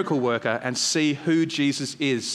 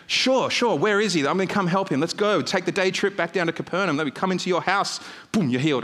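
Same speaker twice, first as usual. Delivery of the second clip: lightly acted eager helper, a little higher-pitched; eagerly obliging Jesus; 3 semitones higher than usual. Jesus agreeing to come and heal the son, eagerly obliging. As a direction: readily agree to help, jumping into action. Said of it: "He was hoping that Jesus would say".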